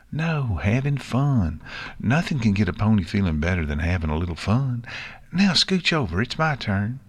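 put-on eager country kid; Apple Bloom, cheerful. Filly claiming her turn on the swing, cheerful.

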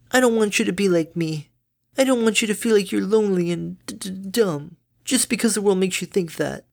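high, bright-natured mother pony; doting mom, high and chirpy; cheery mother voice. Acted.

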